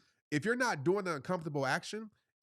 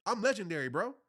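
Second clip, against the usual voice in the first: defiant retort; 4 semitones higher than usual. Pretend. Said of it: "but tell the voice".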